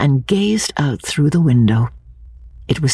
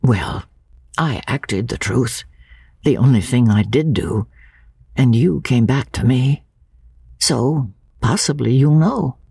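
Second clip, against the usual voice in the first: more gently. Acted. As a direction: soften it for her. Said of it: "then he said more gently".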